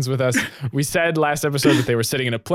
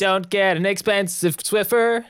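commercial voice; 10 semitones higher than usual. Acted. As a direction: pitch it like a TV ad. Improvised ad slogan.

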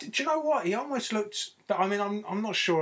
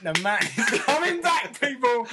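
excited; 7 semitones higher, 4 dB louder than usual. Pretend. Hyping Audley Harrison's comeback.

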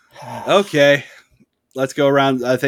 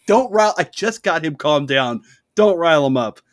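raised, higher exasperated plea; 5 semitones higher than usual. Retold or imitated. To Zach, pleading in mock exasperation, higher. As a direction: beg him to stop riling the guy. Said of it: "I'm like".

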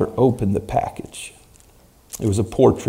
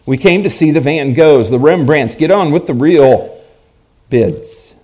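impatient; 4 semitones higher than usual. Acted. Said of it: "Another voice rang out impatiently".

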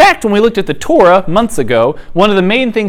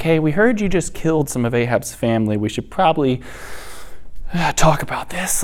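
soft, halting, careful request; tentative messenger; 9 dB quieter than usual. Retold or imitated. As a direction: imitate a nervous envoy broaching a touchy subject. Frightened city's messenger approaches the killer.

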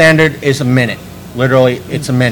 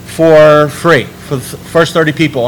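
radio announcer voice; 2 semitones higher than usual. Retold or imitated. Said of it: "he was like".

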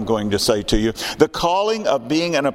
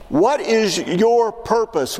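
slow emphatic question; 7 semitones higher, much slower than usual. Real, not acted. Preacher presses the key question.

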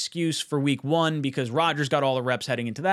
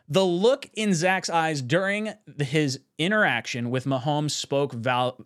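slow, halting read that trips over words; stumbling first read; slower than usual. Shown as a demonstration. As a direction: read it haltingly and lose your place. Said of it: "reset that. Try it again".

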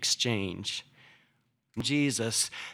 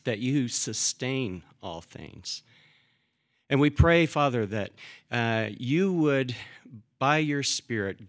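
prayer. Acted. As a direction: pray reverently to the congregation. Pastor prays before sermon.

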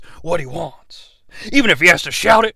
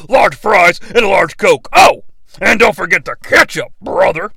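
Hulk Hogan. Acted. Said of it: "Hulk Hogan".

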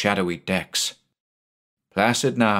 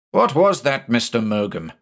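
exasperated; 3 semitones higher than usual. Acted. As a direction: snap the question at the mate. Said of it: "in his usual exasperated tone".

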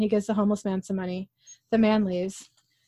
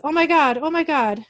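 mock hysterical crying; 7 semitones higher, 5 dB louder than usual. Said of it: "She's crying hysterically".

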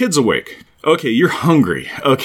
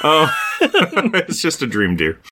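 mock sitcom dream line; 4 semitones higher, slower than usual. Newhart dream ending impression.

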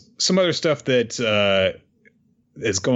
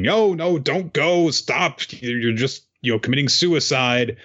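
imitating a desperate call; 5 semitones higher than usual. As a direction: call out to the crowd not to go, then ease off. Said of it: "Momonosuke is calling to everyone saying".

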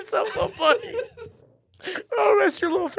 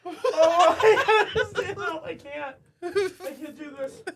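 laughing helplessly; 3 semitones lower, slower than usual. Real, not acted. Laughing too hard to continue.

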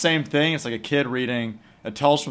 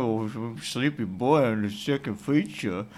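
put-on sleepy child. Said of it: "You're like".

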